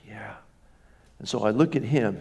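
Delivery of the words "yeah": tearful yes. Retold or imitated. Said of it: "her eyes begin to tear up".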